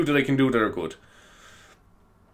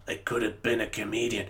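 softer parody of the film quote; mock wistful line; 3 semitones lower, 10 dB quieter than usual. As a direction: turn the famous line into a sad joke.

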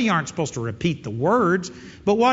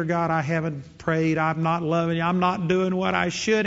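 unworthy prayer. Pretend. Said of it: "entered into God's gates with a sense of unworthiness".

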